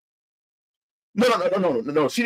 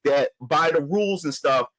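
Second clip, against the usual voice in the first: low calm owner; 8 semitones lower than usual. Retold or imitated. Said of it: "He said".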